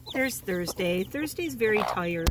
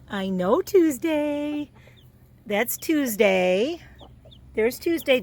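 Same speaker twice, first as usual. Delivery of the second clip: slow cooing; 4 semitones higher, slower than usual. Real, not acted. Cooing at chick Tuesday.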